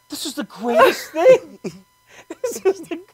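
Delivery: high, loud squeals of delight; overjoyed. Acted. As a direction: lose it with childlike excitement, then ease down. Acts out delight at bunnies.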